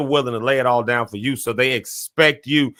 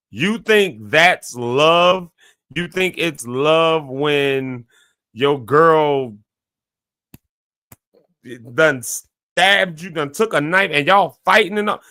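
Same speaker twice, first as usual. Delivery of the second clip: slow disbelief; 3 semitones higher, slower than usual. Retold or imitated. Friends challenge his idea of love.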